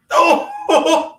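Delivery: high, loud laughing oh; laughing exclamation. Real, not acted. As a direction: burst out laughing in surprise. Surprised laugh at a spot.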